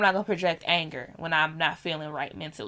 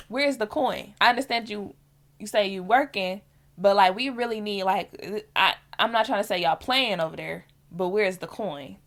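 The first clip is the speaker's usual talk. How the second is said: blunt demand; 2 semitones higher than usual. Retold or imitated. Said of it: "I don't say it like that".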